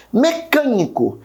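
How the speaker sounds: "Mecânico", third-last syllable drawn out; stress on CAN. Shown as a demonstration. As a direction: lean hard on the "câ" of Mecânico. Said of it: "o can de mecânico também".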